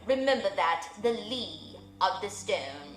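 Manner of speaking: stately owl advising the widow; wise old owl. Acted. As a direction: speak as the solemn old owl giving counsel.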